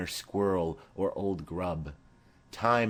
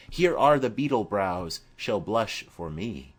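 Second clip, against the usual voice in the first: swaggering Mercutio; 4 dB louder than usual. Acted. Mercutio mocks Romeo's sorrow, swaggering and louder. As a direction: toss off the jibes with bravado. Mercutio's bold mocking speech.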